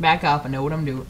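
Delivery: attempted Brooklyn accent. Shown as a demonstration. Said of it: "gotta give him the Brooklyn accent".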